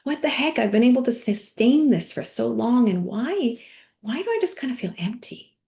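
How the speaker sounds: high, baffled mock complaint; exasperated inner voice. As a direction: play the drained person who can't believe it. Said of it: "and we're like".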